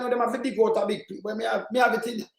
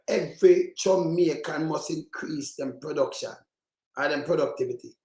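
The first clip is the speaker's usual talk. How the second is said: mocking the politician; 5 semitones lower, 4 dB quieter than usual. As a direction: drag out "Every Jamaican" like a sneering parrot. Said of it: "He used the word".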